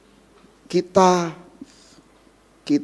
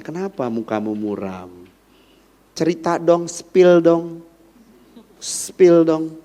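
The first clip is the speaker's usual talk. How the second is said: tender coaxing; 2 semitones lower than usual. Retold or imitated. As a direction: coax him kindly to open up. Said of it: "sayangnya Tuhan kepada Kain".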